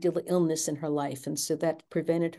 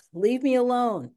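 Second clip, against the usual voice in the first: retold outburst; 7 semitones higher, 5 dB louder than usual. Cornered daughter lashing out.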